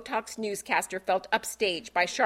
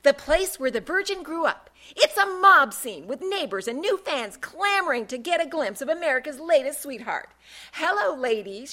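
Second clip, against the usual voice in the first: higher, chirpy news-anchor report; peppy; 5 semitones higher than usual. Acted. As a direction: sell it like a cheery TV report. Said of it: "the same peppy tone".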